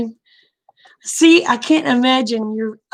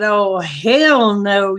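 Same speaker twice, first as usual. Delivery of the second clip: slow drawn-out defiance; 3 dB louder, much slower than usual. Retold or imitated. Confronting husband in argument.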